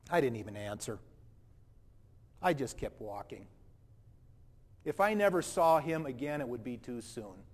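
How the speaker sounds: put-on indignant, self-righteous young man telling his story; a hurt, defensive rich young man recalls meeting Jesus. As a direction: play the proud rich man, wounded and defensive. First-person monologue as the rich young man.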